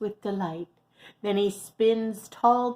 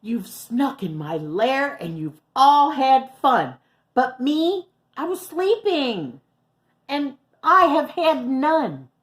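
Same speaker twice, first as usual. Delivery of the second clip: whiny bear; 7 semitones higher, 6 dB louder than usual. Acted. Bear complains to guests.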